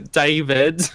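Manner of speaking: mock Southern twang on the name; playful Southern take, lifted at the end; teasing Southern accent. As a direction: imitate a friend's Southern slip, amused. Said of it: "So Southern Ilya, like".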